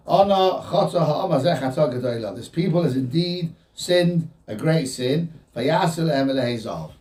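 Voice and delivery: subdued, measured acknowledgment of guilt; solemn confession. Retold or imitated. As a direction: confess a great sin soberly, taking your time. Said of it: "Moshe changes his tone completely".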